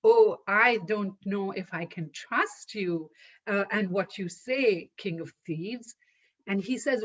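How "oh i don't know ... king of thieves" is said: a light hint of a sweet, coy woman, softening to the end; sweet coaxing voice. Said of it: "in her su-, sweet voice, says".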